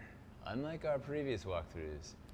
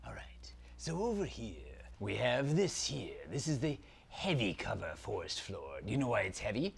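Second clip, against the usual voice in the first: dark lord. Acted. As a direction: savour every word like an evil prince. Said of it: "Zaltar, Prince of Phantasm".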